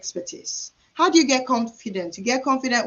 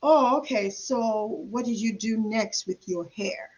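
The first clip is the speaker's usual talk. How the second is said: redirecting client. Shown as a demonstration. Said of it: "just be like".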